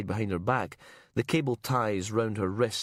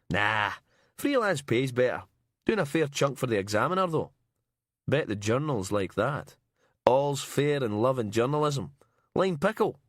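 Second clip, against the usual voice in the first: Miller's voice; 4 semitones higher than usual. Acted.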